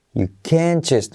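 slow "can't", stressed whole, no T; silent T in CAN'T. Shown as a demonstration. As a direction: stretch and stress "can't", dropping the T. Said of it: "Recuerda no pronunciar la T". ("can't" lento y acentuado, sin T)

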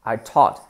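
"taught" with an open aw sound; vowel between O and A. Shown as a demonstration. Teacher models the mixed vowel in "taught", between O and A. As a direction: blend O and A in "taught". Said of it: "una mezcla entre las dos".

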